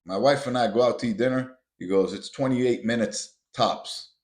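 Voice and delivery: lightly voiced older businessman, proud of speed; mock proud older man. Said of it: "He's like".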